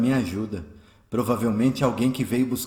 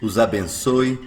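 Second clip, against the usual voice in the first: louder, lower, smiling and kind; smiling greeting; 6 semitones lower, 4 dB louder, slower than usual. Acted. Eurípides greets his would-be killers, smiling warmly. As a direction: bless them gently with a smile. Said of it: "diz sorrindo".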